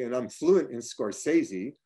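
ordinary delivery

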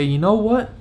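rally yourself, climbing as you go; determined self-pep talk. Retold or imitated. Talking himself back up after taking hits, rising resolve. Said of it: "can I still bring myself to say".

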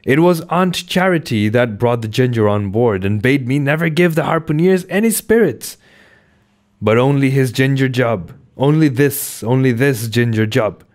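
high, anxious steward excuses; pleading steward. Acted. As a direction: plead your innocence, pitched high. Doughboy pleads.

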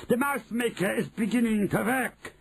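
high-pitched triumphant witch; exultant, high witch cry; shrieking Grand High Witch. A narrator's reading. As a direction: screech with wicked glee. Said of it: "shrieked the Grand High Witch".

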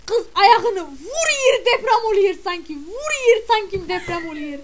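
hammed-up shocked laughter; laughing amazement. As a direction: crack up while describing the dance. Marvelling at stomping dancer.

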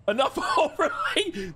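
slow, high laugh through words; laughing read-out. Real, not acted. Streamer reads overlay title, high laughing voice. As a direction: read it out while cracking up.

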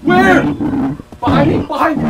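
high, loud frantic cries; real panicked shouting. Real, not acted. Player chased by the monster, shouting in fear. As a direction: yell as it closes in behind.

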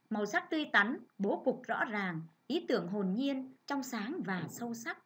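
careful model read with stressed key words and clean pauses. Shown as a demonstration. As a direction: read it as a model for the class to copy. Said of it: "các con cùng nghe cô đọc mẫu một lần nhé".

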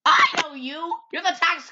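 high, loud accusing shout; loud accusation. Acted. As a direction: call him out loudly. Accusing outburst.

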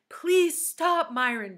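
high, loud, urgent plea; begging. A narrator's reading. Jenny begging Myron to behave, anxious plea. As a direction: plead with the friend to stop. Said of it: "begged Jenny".

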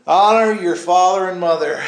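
loud, deliberate scripture quote; proclaimed commandment. Retold or imitated. Preacher recalling the Lord's reminder of the verse, loud proclamation. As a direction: declare it firmly, stretching the words.

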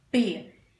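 "Pesado" split as "Pe... za... do"; three separate, careful beats on "Pesado"; slow, by syllables. Shown as a demonstration. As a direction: say "Pesado" slowly with a pause after each syllable. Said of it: "Vou falar a palavra devagar".

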